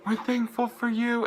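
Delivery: very high, loud fan scream; screamed fan reply. Retold or imitated. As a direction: shriek it back at the singer from the crowd. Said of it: "So I just screamed".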